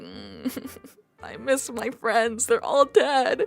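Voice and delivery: a hint of a slow, mournful old man; sad old man. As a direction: lightly voice a lonely old man. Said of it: "it's like".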